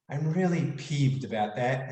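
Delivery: light, smiling, easy on really peeved; said with a smile. Shown as a demonstration. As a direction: say I'm really peeved about that with a smile, no heat. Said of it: "and do it with a smile".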